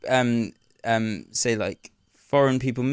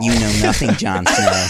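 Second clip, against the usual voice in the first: louder, hammed-up American quote; mock American, loud; 2 semitones lower, 6 dB louder than usual. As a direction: belt the line as a silly American. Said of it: "it would sound a bit weird".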